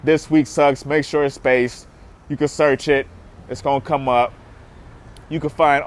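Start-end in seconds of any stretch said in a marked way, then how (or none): 0.0-0.9 This Week Sucks said slowly, each word set apart; spelled out slowly. Shown as a demonstration. Telling fans how to type the page name, slow and spaced. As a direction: space out This Week Sucks so they hear the gaps. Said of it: "Don't use all one word".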